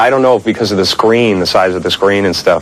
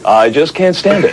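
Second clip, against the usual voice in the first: slow, higher, whiny complaint; mock whiny actor; 6 semitones higher than usual. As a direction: drag it out like a precious actor. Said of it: "most actors that would sit here and say".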